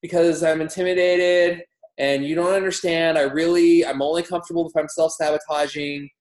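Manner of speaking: mock protest, voice pushed up; protesting client. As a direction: play a client pleading out of it. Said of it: "they're gonna say".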